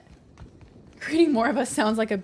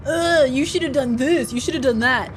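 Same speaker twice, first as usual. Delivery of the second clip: imitating nagging critics with a disgusted ugh; mock complaining commenters; 3 semitones higher, 4 dB louder than usual. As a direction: mimic backseat players griping, pitched up. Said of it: "a bunch of people being like".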